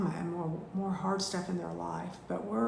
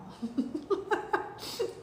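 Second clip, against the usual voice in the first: teary laugh; 10 semitones higher than usual. Real, not acted. Teacher laughs, moved by a student's kind message, breathy laugh. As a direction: laugh it off while moved to tears.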